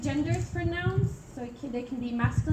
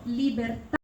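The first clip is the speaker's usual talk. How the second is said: "libertà" with the accent on "-tà"; stress on final syllable. Shown as a demonstration. Teacher giving a tronca example, final-syllable stress. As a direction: cut "libertà" short on a stressed "tà". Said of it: "the sound is cut at the end".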